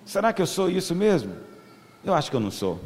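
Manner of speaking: quiet, private thought; soft, sinking self-questioning; inner self-doubt. Retold or imitated. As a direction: voice a doubting thought softly, dropping low at the end. Vinha o pensamento.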